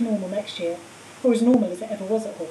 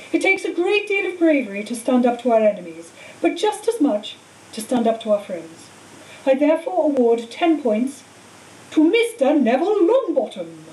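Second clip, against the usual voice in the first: a hint of a kindly old headmaster, building to the announcement; lightly voiced Dumbledore; 3 semitones higher, 3 dB louder than usual.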